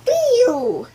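belted out word; reading the word at full volume; loud. Real, not acted. Child reading word aloud loudly.

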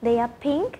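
"They are pink" with the voice rising on pink; rising question tune. Shown as a demonstration. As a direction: lift "pink" at the end like a question. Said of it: "cô ấy sẽ hỏi lại".

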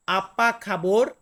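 আপা খাবর spelled out slowly for learners; slow repeat. Shown as a demonstration. Teacher repeating the phrase for viewers to copy, slow and clear. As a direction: drag out আপা খাবর so viewers can follow. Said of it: "আমার সাথে বলবেন please".

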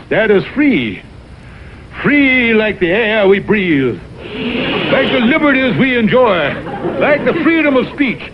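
orate like a Fourth of July politician; mock patriotic oration. Mock patriotic speech over music.

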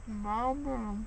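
"Bite 'em down" slow and mushy, mouth full; numb mouth. Real, not acted. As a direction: mumble "Bite 'em down" through gauze. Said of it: "it's her tongue's coming numb".

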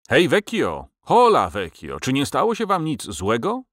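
lightly urgent hailing call; breathless, urgent. A narrator's reading. Nostromo hailing old Viola from outside, mildly urgent. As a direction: call out urgently, pitch lifting on the question. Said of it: "zdyszany i naglący".

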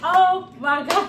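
loud, slow, tearful cry of joy; drawn out through happy tears; real happy tears. Real, not acted. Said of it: "I am crying".

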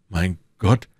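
cry out. A narrator's reading. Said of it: "rief er".

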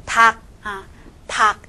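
닭 pronounced as 닥, ㄹ silent; pronunciation review. Shown as a demonstration. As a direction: read out 닭 with a stopped k ending. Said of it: "把这个现象来读一遍". (复习示范：닭读成닥)

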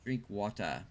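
lightly put-on British voice; mock British, dropping the final R; fake British accent. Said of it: "I'll do the fake British accent".

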